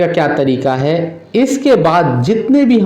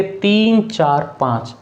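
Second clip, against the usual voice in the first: slow, each digit read separately; teacher reading the decimal digits to students, slow and separate; digits read one by one; 3 dB quieter, slower than usual. Shown as a demonstration. पढ़ाते हुए अंक अलग-अलग धीरे बोलना. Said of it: "तीन सौ पैंतालीस नहीं लिखेंगे".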